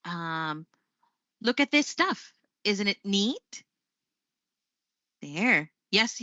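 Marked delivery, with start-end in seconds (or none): 1.4-3.6 "neat" lifted at the end as a question; sample yes-no question, voice climbing on "neat"; rising question intonation. Shown as a demonstration. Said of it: "Or maybe the question".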